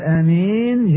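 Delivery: آمين with a short first vowel, long -een. Shown as a demonstration. Teacher citing the permissible variant, short-A آمين. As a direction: open آمين briefly, then lengthen the end, amīn. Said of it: "جاز ذلك لغة".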